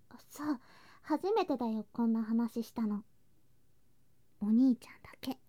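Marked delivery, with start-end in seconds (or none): 4.4-5.4 secret whisper. Acted. Confiding a secret dream.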